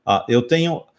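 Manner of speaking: usual speaking voice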